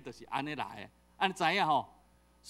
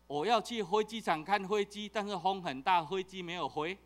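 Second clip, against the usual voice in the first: put-on old-style Taiwanese-accented Mandarin, f softened toward h. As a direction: say it like you used to, with a light Taiwanese accent. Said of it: "较早讲国语拢安尼讲啊". (带台湾腔的国语，"飞机"说成 hwei ji)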